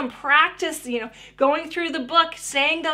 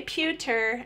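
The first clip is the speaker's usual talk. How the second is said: "pewter" repeated softer; child's echo; 5 dB quieter than usual. Acted. Child copying the parent's two syllables, a softer echo. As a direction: echo "pewter" softly after the model. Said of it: "and they say".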